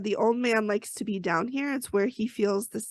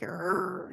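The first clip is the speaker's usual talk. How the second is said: mock growl; 3 semitones lower, 4 dB quieter than usual. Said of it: "and she actually growls".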